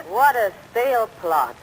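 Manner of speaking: slow, loud sarcastic retort. Acted. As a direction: drag it out, unimpressed. Retort to fresh kid.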